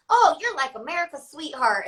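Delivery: put-on Midwest country accent. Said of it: "I don't know why I'm saying it with that accent".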